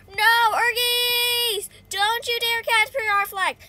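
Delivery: high, loud game outrage; playful warning yell. Pretend. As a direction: shout off the flag thieves. Yelling at rival players.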